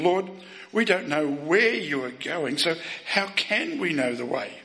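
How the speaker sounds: understated strain in a quoted question; mildly strained. Retold or imitated. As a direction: imitate a puzzled disciple, lightly strained. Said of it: "You can hear the strain in".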